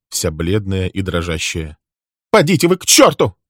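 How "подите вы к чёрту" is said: high, loud furious yell; a secretary screaming at her accuser; angry shout. Acted. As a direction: fling the curse at him, full voice. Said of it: "закричала она".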